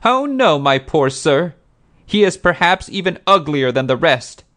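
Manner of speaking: high, loud self-pitying wail; woeful woman pleading her hard luck, very high; tearful falsetto. A narrator's reading. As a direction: lament piteously in a put-on falsetto. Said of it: "those tearful falsetto tones".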